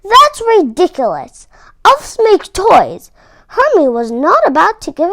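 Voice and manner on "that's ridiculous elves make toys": louder, slowed scolding; hammed-up scolding foreman; scornful boss elf. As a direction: dismiss the dream with scorn. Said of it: "barked the boss elf".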